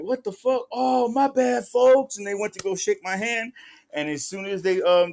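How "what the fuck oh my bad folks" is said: high, rising to a loud "folks"; startled apology. Retold or imitated. Rival realizing he has the wrong man, surprised apology. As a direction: caught out, backpedalling higher and louder. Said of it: "And he was like".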